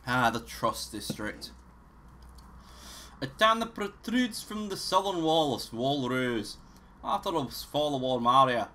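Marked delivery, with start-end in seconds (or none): 3.2-8.7 put-on Scottish reading voice; lightly hammed-up Scottish narrator; Scottish accent. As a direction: read it out in a mock Scottish accent. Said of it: "in a Scottish accent".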